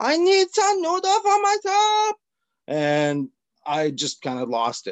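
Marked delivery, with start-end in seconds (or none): 0.0-2.2 put-on elderly woman's very high yell. Retelling how an old lady from the basement yelled: imitating an old lady yelling. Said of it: "So she comes out yelling".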